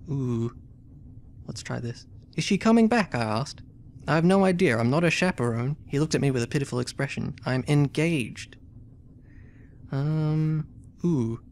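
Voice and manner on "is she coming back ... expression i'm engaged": reading the game text aloud as a story; story narration. A narrator's reading. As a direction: narrate it like an adventure novel. Reads story and character dialogue.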